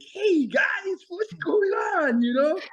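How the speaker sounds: loud, high, over-the-top cheerful hello; goofy hyped ranger. Retold or imitated. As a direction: shout it like a cartoon hero. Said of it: "I was kinda like".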